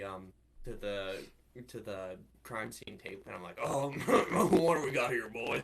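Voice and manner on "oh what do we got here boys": put-on gruff cop greeting the boys; detective voice. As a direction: play the old-timer detective. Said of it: "my Detective Hodroj voice".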